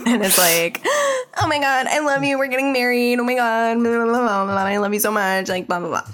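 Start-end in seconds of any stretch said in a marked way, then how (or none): 1.4-5.5 imitated lovestruck fan babble; hammed-up infatuated rambling; mock gushing. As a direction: gush it in one higher run. Acts out obsessed fan's declaration.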